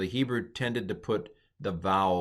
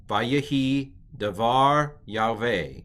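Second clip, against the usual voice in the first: very slow, measured Hebrew reading; model reading; 2 semitones higher, 4 dB louder, much slower than usual. Shown as a demonstration. Teacher reads the verse to students, slow model reading. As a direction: sound out each word slowly.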